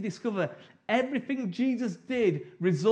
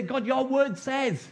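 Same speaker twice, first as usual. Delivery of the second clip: prayer demo; 3 semitones higher, 4 dB louder than usual. Shown as a demonstration. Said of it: "We need to go before him and say".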